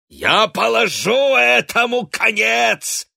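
high, loud, slow bellow; furious yell. A narrator's reading. Drunk father yelling at his family. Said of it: "завопил Гант".

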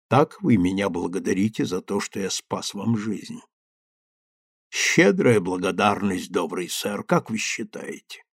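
a father coldly mocking the young man's gratitude; father confronting his daughter's lover, low and bitter; reproachful father. A narrator's reading. Father's voice in story.

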